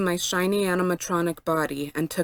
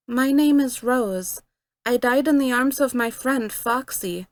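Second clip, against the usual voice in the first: sighing; 5 semitones higher than usual. A narrator's reading. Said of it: "I sighed".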